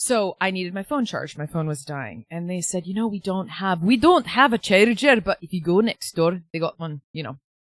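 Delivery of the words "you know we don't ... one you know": loud put-on Scottish accent on every word. Retelling what staff said about a phone charger: Scottish accent. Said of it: "that's my Scottish accent".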